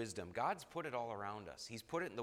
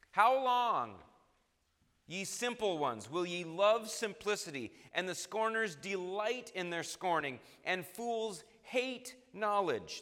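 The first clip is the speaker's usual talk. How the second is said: higher, louder, pleading call; crying out; 5 semitones higher, 4 dB louder than usual. Shown as a demonstration. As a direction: cry it out like Wisdom in the streets. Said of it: "she's crying out".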